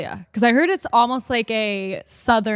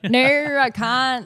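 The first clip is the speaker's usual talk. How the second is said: Australian accent attempt; 3 semitones higher, much slower than usual. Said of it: "can you do an Aussie accent?".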